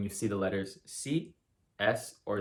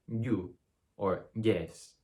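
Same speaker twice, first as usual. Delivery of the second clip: Spanish accent; much slower than usual. Shown as a demonstration. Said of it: "native Spanish speaker speaking English".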